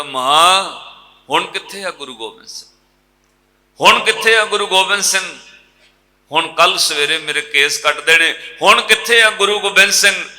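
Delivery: loud, high anguished wail, no tears heard; wailing loudly. Acted. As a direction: cry out to the dead mother in anguish. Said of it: "ਉੱਚੀ ਉੱਚੀ ਰੋਂਦਾ ਹੈ".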